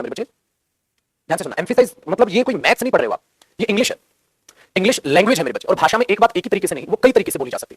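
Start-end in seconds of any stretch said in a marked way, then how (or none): 0.0-1.6 slow, hushed call. Real, not acted. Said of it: "ध्यान से सुन लेना".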